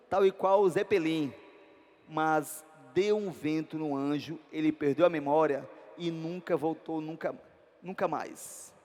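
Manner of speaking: measured poem recitation, slowing in places; poem reading. Acted. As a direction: read the poem aloud, line by line. Diz assim o texto.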